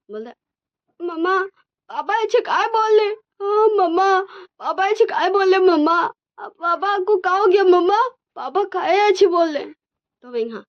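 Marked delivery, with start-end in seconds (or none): 1.0-9.6 put-on high, whiny little kid asking mama; child voice. Twins asking mama why papa talks that way, high childish whine. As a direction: squeak it up like a confused toddler. Small children ask their mother.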